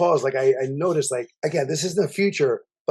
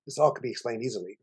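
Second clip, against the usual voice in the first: soft, quick creepy murmur; creepy whisper; 4 semitones lower, 7 dB quieter, faster than usual. Retold or imitated. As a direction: murmur it right into her ear. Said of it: "Way to make it even more creepy".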